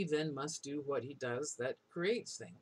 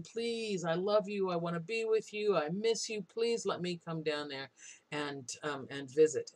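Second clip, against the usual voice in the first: imitated begging. Brother begging his dead sister to let him visit, mild pleading. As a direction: lightly plead like a lovesick brother. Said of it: "And he is begging".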